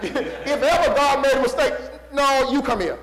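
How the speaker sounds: loud, laughing; laughing joke. Acted. Preacher joking about getting into heaven, laughing. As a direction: chuckle through the joke.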